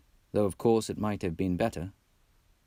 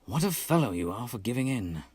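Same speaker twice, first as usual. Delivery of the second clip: reproachful; 2 semitones higher than usual. Acted. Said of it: "said the Rat reproachfully".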